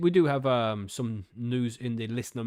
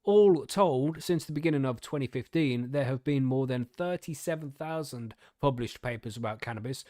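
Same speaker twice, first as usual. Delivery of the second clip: news article reading. Real, not acted. Podcaster reading cannabis research news to co-hosts, article-reading voice. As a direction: read the research report out to listeners.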